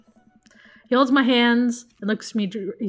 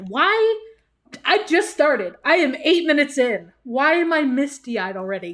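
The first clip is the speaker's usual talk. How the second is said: surprised outburst; 4 semitones higher than usual. Real, not acted. Choked up early in game.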